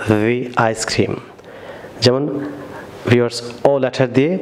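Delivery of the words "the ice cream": "the" as thee, very slow before "ice cream"; slow correct thee. Shown as a demonstration. Teacher repeats the correct form, very slowly. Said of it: "not the".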